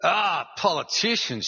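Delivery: voice that carried. Retold or imitated. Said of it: "she had a voice that carried".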